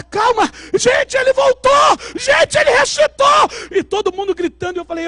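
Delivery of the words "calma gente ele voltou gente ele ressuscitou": high, loud astonished cry; excited shout. Retold or imitated. Woman shouting to everyone that he came back to life, high and excited. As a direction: shout the miracle.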